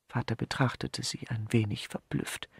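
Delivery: ordinary delivery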